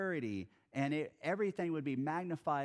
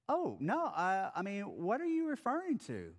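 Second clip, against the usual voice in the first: high, mock-innocent question; playing dumb; 5 semitones higher than usual. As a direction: feign ignorance with a wink. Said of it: "a hilarious response".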